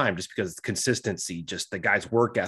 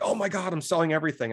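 higher, mock-panicked seller; 7 semitones higher than usual. Scared investor dumping everything as the market drops, in a higher mock panic. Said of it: "they're like".

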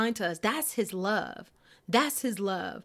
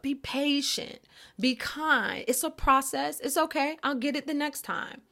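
gently reassuring, pitched higher; tender self-talk; 6 semitones higher than usual. Acted. Speaker models talking kindly to her own soul, tender and reassuring. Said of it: "Be tender to your soul. Talk to yourself".

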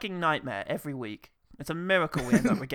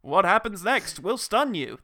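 slow loud teaser line; dramatic trailer voice; 3 semitones higher, 6 dB louder, slower than usual. Pretend. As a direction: hype it like a clickbait trailer. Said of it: "mock trailer line".

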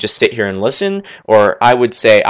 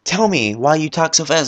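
lightly mimicked listener, mostly higher-pitched; imagined listener; 5 semitones higher than usual. Listener emailing the host about his speed, lightly mimicked. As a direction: act out a pestering emailer, pitched up. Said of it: "Shoot me an email".

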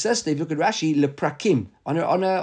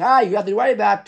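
mildly mocking, higher-pitched dismissal; retold mockery; 4 semitones higher, 4 dB louder than usual. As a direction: imitate a student's light scoff, pitched up. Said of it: "Some talmid mocked him for saying".

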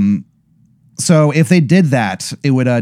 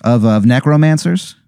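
bad Wisconsin accent; 4 semitones higher than usual. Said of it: "he's like".

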